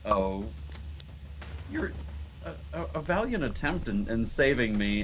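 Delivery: a hint of a small girl's voice in the dark. Small girl promising a favor to her rescuer, lightly childlike voice. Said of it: "that of a small girl".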